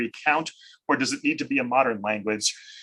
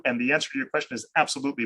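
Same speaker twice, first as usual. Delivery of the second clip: auctioneer pace; much faster than usual. Real, not acted. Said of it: "auctioneer voice and race through these".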